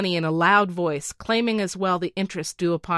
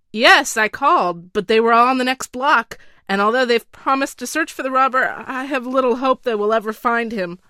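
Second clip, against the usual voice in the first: higher, louder anxious official pleading his case; a flustered minister making excuses, talking fast and loud; nervous counselor; 5 semitones higher, 6 dB louder than usual. Acted. Counselor reports police search.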